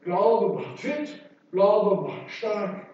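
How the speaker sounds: slow, emphatic slogan; lightly mock a confident creed; measured, punchy motto delivery; youthful conviction. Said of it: "da habe ich mir wirklich vorgestellt".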